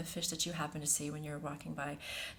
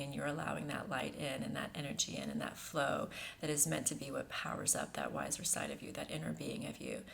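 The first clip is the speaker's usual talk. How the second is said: guided meditation. Acted. Host channels a feminine energy for listeners, meditative and hushed. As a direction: lead them gently into the breath, unhurried.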